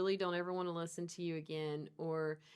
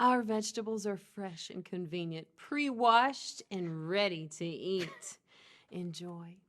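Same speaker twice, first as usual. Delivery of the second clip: sexy voice. Pretend. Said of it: "I'm gonna read it in my sexy voice".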